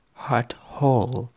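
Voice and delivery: slow whispered "Heart whole"; whispering. Acted. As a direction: breathe the words out. Whispered poem line.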